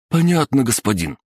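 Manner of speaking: high, hasty goon reply; cowed assent. A narrator's reading. Cowed goon answering the stranger, meek and high. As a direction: yelp obedience, dropping from high pitch.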